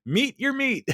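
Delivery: giggly, high-pitched retelling of the line; barely holding back laughter; quoting through laughter. Retold or imitated. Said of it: "and Ron says".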